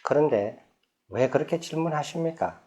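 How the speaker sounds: the Buddha asks the impatient king gently; gentle question. Retold or imitated. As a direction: ask back kindly and without edge. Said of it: "부드럽게 여쭤봐요".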